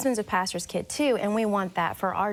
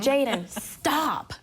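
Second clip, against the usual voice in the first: retold stressed snap; 3 semitones higher, much slower than usual. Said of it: "in my flesh, my weakness".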